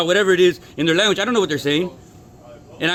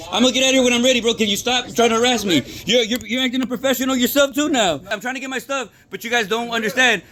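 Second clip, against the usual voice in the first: heated, higher-pitched protest; raised voice; 4 semitones higher than usual. Real, not acted. Worker raising his voice at staff, heated. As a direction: voice rising at the manager. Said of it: "I don't even know why I'm raising my voice".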